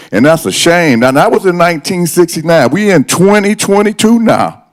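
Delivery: rising upset, pitch climbing high; getting worked up and indignant. Real, not acted. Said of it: "I was trying to stay calm. I'm a little upset".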